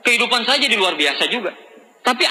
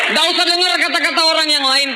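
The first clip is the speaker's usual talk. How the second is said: fervent shout; 6 semitones higher than usual. Real, not acted. Speaker urges members to ignore doubters, fervent shout. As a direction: shout it to the back of the hall.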